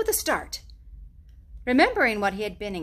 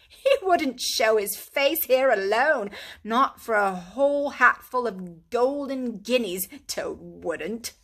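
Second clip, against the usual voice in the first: lightly voiced brisk, kindly water rat; Rat's voice; 5 dB louder, slower than usual. A narrator's reading. Rat explains the wood's dangers to Mole, kindly but firm. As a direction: gently scold a foolish friend.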